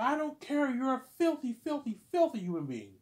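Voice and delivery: high, loud insult; imitated screaming teacher; mock teacher yelling. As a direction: hurl it like the raging teacher. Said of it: "She's like".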